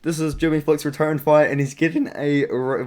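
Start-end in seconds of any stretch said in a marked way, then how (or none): 1.6-2.8 voice crack. Real, not acted. Fight preview broken off by an accidental voice crack. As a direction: voice cracks mid-word. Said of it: "voice crack".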